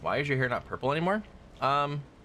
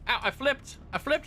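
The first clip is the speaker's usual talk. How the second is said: squeaky cartoon yelp. Character flips over in game.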